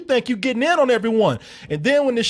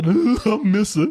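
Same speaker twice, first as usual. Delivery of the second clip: mock sobbing; slower than usual.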